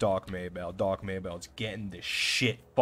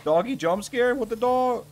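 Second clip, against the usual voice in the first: very high, loud yelp; startled; 12 semitones higher, 7 dB louder than usual. Real, not acted. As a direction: squeal in surprise, easing off at the end. Startled by dog in game.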